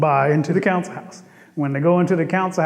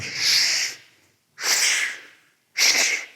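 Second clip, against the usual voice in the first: shushing; much slower than usual. Acted. Bullfrog shushes holding rattle.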